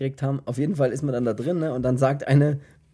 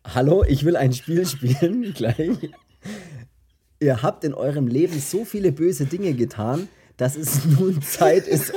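loud distorted villain voice, breaking into laughs; 2 semitones higher, 4 dB louder than usual. Pretend. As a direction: growl it through a distortion filter. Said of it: "was die verzerrte Stimme sagt".

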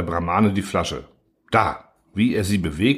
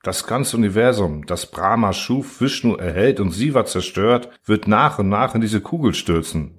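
solemn. Acted. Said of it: "sagte feierlich der Brahmane".

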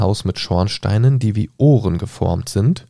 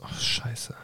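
soft unvoiced swear under the breath; muttered curse; 2 semitones higher, 12 dB quieter than usual. Real, not acted. Reader loses the page, swears under breath. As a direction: grumble to yourself. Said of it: "reader curses losing page".

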